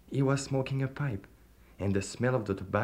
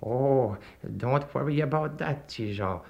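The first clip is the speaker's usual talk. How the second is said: devil voice; 3 semitones higher than usual. A narrator's reading. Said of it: "said the stranger".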